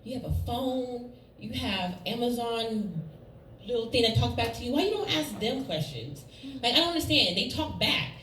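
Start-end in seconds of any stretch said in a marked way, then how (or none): 0.0-6.2 frustrated mom. Retold or imitated. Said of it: "I get frustrated 'cause I'm like".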